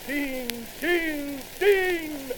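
rising from a call to a desperate shout; building cry. Acted. Wounded soldier calling out for the water carrier, building shout.

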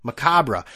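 macabre as "muh-KAH-bruh", falling; copied pronunciation. Shown as a demonstration. Host echoing the audio guide, macabre as muh-KAH-bruh. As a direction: repeat macabre firmly with a sounded -ruh. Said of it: "We got a s-, pronunciation here?".

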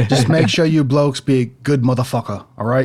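lightly attempted Aussie accent; Australian accent. Co-host joins in with a rough Australian accent. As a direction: have a go at Australian, in your own pitch. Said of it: "do you have an Australian accent".

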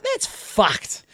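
softly, under the breath; trying to be quiet. Retold or imitated. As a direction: keep the outburst down in a café. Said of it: "trying to be quiet".

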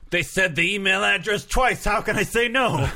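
goofy high voice. Pretend. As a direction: squeak it out like a goof. Voicing drunk listener.

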